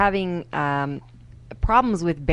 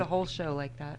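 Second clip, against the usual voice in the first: put-on Indian accent; 2 semitones lower, 13 dB quieter than usual. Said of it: "Now you're Indian".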